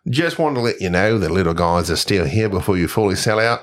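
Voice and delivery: style Aussie email voice; Australian accent. Acted. Signing off a listener's email, Australian accent. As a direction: sign off as an Australian fan. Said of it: "he sounded just like that".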